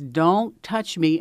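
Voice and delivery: slow, emphatic mock yell; retold scream. Little boy rearing back at a passerby, mild mock scream. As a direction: imitate a child's scream, drawn out but not full volume. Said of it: "he screamed it at the top of his lungs".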